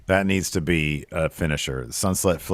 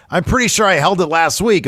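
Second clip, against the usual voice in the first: weak comeback; 10 semitones higher, 5 dB louder than usual. Retold or imitated. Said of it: "the best she can come up with is".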